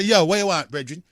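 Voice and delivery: lightly acted Jamaican street twang; a hint of Jamaican patois. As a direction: put on a bit of a Jamaican patois, like a mate calling out. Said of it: "I don't hear people talking like that".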